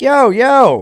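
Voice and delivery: high, loud startled call; alarmed yell. Retold or imitated. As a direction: warn him off fast. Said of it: "So I'm like".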